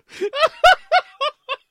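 very high, loud imitated scream. Wife sees the man on stairs, screaming. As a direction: shriek as if startled by a stranger. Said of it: "and she screams".

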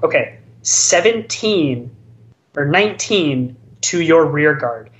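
clearly announced. Retold or imitated. Player declaring an attack to his opponent, clearly announced. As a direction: lay out each number distinctly. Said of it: "And I clearly say".

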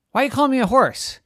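put-on high puzzled kid voice; confused little boy. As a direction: mishear and sound baffled.

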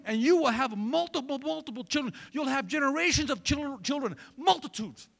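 the angel blessing Hagar, building with fervor; angel's promise. Retold or imitated. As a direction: swell it like a preacher giving God's blessing. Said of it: "And what he says is".

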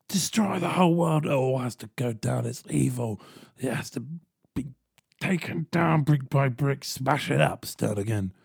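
Mister Robot voice. Retold or imitated. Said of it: "or Mister Robot".

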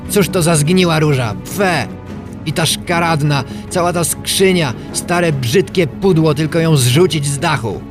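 high-pitched scornful tirade; surly disgust. A narrator's reading. Kaj rails at roses and box, surly disgust. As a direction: spit out contempt for the old junk. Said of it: "zapytał opryskliwie".

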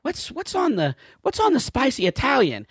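mock a dithering customer; clueless customer. Indecisive customer asking the Subway guy, mock-clueless.

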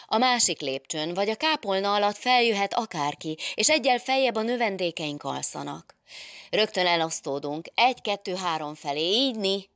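emphatic orders, pitch pushed up; urgent commands. Acted. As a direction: take charge of a startled crowd. Adél gives urgent search orders.

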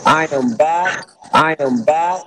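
loud, hollow line; like calling from a tunnel; echoing tunnel. Real, not acted. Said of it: "sounds like you're in a tunnel".

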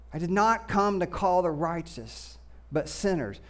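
slow, emphatic scripture reading with weighted key words. A narrator's reading. Preacher reading the Gospel story to the congregation, slow emphatic scripture reading. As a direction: read it out with deliberate phrasing and pauses. Reads the Bible passage aloud.

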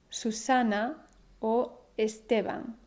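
Susana and Esteban slowly, stressed su-SA-na, es-TE-ban; stress on penultimate syllable. Shown as a demonstration. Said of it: "es la penúltima sílaba".

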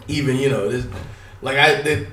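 tripping over his words; stammering, restarting the phrase; stuttering. Real, not acted. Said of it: "I'm stuttering and shit".

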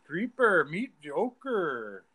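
drawn-out mock Latin introduction; Latin accent. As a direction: stretch both nicknames playfully in a put-on Latin accent. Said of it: "That's fun to say".

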